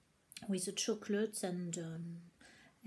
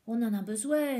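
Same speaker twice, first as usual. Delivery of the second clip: excited outburst; 3 semitones higher, 7 dB louder than usual. Real, not acted. Demanding southern accent videos.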